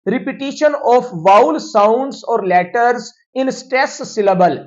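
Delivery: reads the English definition word by word, very slowly; slow, deliberate teacher dictation. Shown as a demonstration. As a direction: spell it out slowly so students can write it down.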